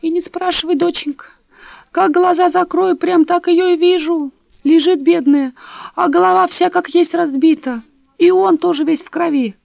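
put-on high, quavering old woman lamenting; old neighbour tells Dasha of the bodies, high and mournful; old woman's voice. A narrator's reading.

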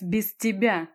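"без тебя" slowed and emphasised; stress on БЕЗ ТЕБЯ. A narrator's reading. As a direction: lean pointedly on "без тебя". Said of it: "особо выделила голосом последние два слова".

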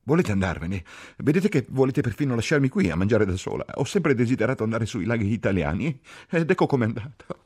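high, loud, wailing complaint; sobbing outburst. A narrator's reading. Ferguson feels abandoned at dinner, tearful outburst. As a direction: build to a self-pitying wail. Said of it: "Singhiozzò".

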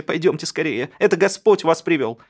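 desperate housewife pulling guests in; frantic plea. A narrator's reading. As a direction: hurry them in, half beside yourself. Olga frantically begs them inside.

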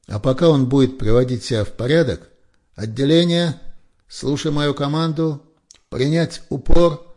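the officer ordering the squad down for push-ups, loud; parade-ground command. A narrator's reading. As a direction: bellow at the squad.

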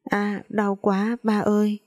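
put-on slow, mildly tearful child's cry of pain; a little boy whimpering as he hurts, understated. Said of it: "Nó khóc um lên". (đứa bé khóc nhẹ vì đau)

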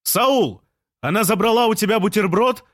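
very high, carrying call; shouted questions. A narrator's reading. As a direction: yell up to the window for an answer. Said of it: "крикнул Жан".

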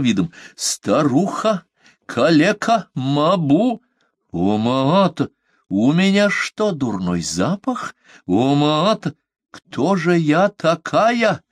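high, slow, offended wail; wailing outrage. A narrator's reading. Omaata wailing in offended fury. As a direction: howl out the insult. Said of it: "завопила она".

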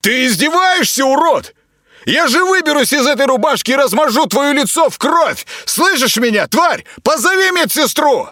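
high, loud furious shout. Acted. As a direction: threaten him at full volume. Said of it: "заставило его повысить голос".

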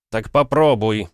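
a sudden loud snap of temper; flaring up. A narrator's reading. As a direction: burst out, impatient. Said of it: "вспыхнул отец".

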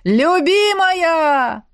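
slow, drawn-out loud call. A narrator's reading. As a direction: wail it up at the window. Ex calling from the street. (протяжный громкий зов)

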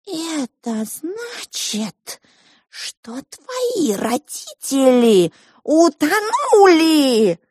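high, slow little mouse voice; a tiny mouse delivering grave news slowly; high squeaky mouse, slow and solemn. Acted. Pink mouse announces tragedy.

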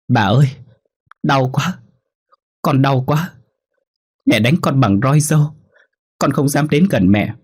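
put-on high, tearful little child's voice, begging; a lost dead child crying for help at night; pleading ghost child. Ghost child pleads with her grandmother, high and tearful.

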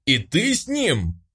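betrayed bully rages at Nika; raging yell. A narrator's reading. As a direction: roar it in fury. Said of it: "заорал в бешенстве Салтыков".

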